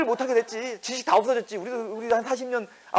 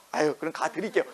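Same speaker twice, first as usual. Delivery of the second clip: laughing Moses; 6 semitones lower, 5 dB quieter than usual. Retold or imitated. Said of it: "하나님의 마음이 가상하여".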